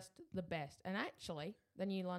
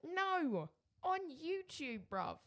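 playful retort; 9 semitones higher, slower than usual. Real, not acted.

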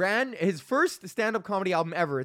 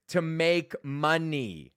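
deadpan answer; 2 semitones higher, much slower than usual. Retold or imitated. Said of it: "I was like".

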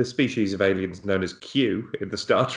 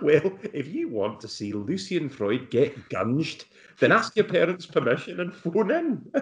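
Lorraine Kelly impression; 3 semitones higher than usual. Host announces the phone-in in a Scottish accent. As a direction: read it like a kids' TV competition. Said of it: "a fairly solid Lorraine Kelly".

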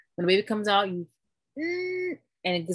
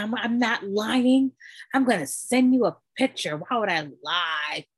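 slow drugged insisting; 3 semitones higher, 4 dB louder than usual. Retold or imitated. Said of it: "I was so gone".

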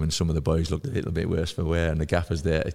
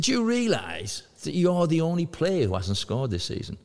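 teasing teammate; 10 semitones higher than usual. Retold or imitated. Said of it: "he said".

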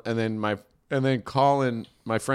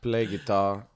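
put-on quiet Mexican-accented driver; soft-spoken Mexican accent; 5 semitones lower, 3 dB quieter than usual. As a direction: imitate the cabbie's Mexican accent, softly. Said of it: "the quintessential Mexican accent".

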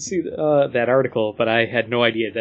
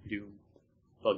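Doom buggy in a Buffalo accent, Doom with a flat upstate vowel; 4 semitones lower, 14 dB quieter, faster than usual. Real, not acted. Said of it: "my Buffalo accent".

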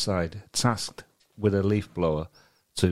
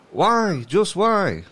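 high, loud, hammed-up plea; theatrical disbelief, pitched right up; exasperated cry; 9 semitones higher, 5 dB louder, much slower than usual. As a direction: wail it in mock despair. Reads out an exasperated online comment.

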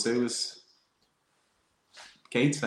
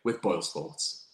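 ad read. Acted. Sponsor ad read.

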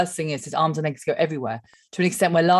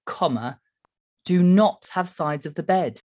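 reading a tweet. Shown as a demonstration. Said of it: "so it says".

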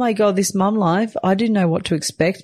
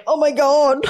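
much higher, dissolving into laughter; squeaky giggle after a high oh my god; high laughing oh my god; 12 semitones higher than usual. Retold or imitated. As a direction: laugh through the disbelief. Recounting the poop mishap.

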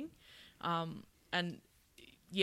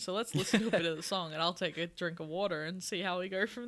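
creaky, gravelly vocal fry. Real, not acted. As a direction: voice rattling down into fry. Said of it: "I got vocal fry going on here".

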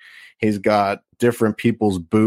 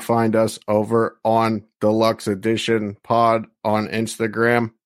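level monotone plug read; mock monotone broadcasting. Shown as a demonstration. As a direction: keep the plug on one note. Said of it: "We're not monotone anymore".

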